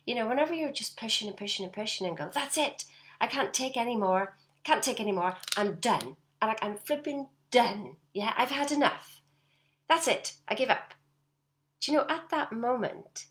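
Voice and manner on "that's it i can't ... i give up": louder, exasperated giving up; mock fed-up outburst. Coach acting out the burnt-out listener, loud and fed up. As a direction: blow up like you've had enough.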